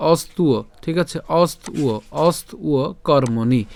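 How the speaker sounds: অস্তুয় কর্মণি with ব sounded as "uo"; model pronunciation. Shown as a demonstration. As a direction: break অস্তুয় into ost-uo, slowly. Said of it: "তাহলে উচ্চারণটা কেমন?". (অস্তুয় কর্মণি, অন্তস্থ ব "উয়"-র মতো)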